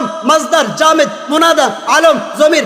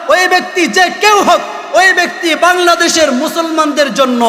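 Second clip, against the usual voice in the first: shouted preaching; 4 semitones higher than usual. Real, not acted. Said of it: "চিল্লায়া বলি".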